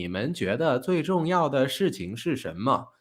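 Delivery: flat Google AI voice, no rise and fall; robot voice. Shown as a demonstration. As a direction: read it like a text-to-speech machine. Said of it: "A I的声音就是".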